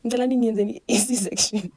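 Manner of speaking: retold crying. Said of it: "Sengiyakhala ngithi".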